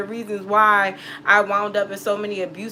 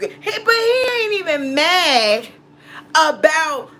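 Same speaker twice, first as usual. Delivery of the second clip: laughing through the words; can't hold back a laugh, cracking up; 6 semitones higher, 3 dB louder than usual. Real, not acted. Telling a friend about an ex, laughing.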